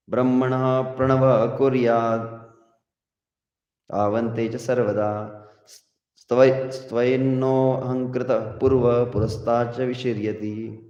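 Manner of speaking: slow, measured shloka recitation; Sanskrit verse recitation. Acted. Teacher reciting a shloka to the class before explaining it, measured recitation. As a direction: recite the verse slowly, syllable by syllable.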